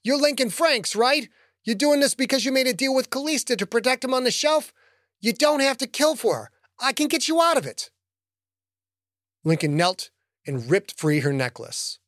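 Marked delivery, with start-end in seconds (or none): 0.0-7.9 pleading woman. Acted. Woman pleading for her life.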